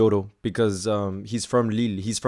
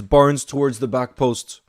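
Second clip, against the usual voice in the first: mild excitement; 6 dB louder, slower than usual. Real, not acted. Replaying the chance.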